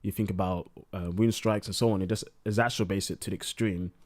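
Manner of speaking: tipsy, words running together. Real, not acted. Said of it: "I'm kind of drunk".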